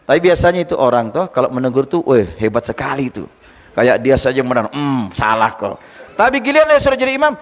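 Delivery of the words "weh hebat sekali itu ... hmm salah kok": mock a self-important fault-finder, pitched down; sneering imitation of a smug critic; smug know-it-all. Mimicking a smug corrector in congregation.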